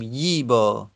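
ییبا said as yiiba, hamza dropped; eased hamza. Shown as a demonstration. Teacher showing ییبا with the hamza eased. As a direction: read ییبا with a long ii, no glottal stop. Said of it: "جایزه که ما تسهیل بکنیم".

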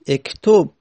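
اکتب said "ektob"; kasre to damme. Shown as a demonstration. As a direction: open اکتب on "e", then round to "o".

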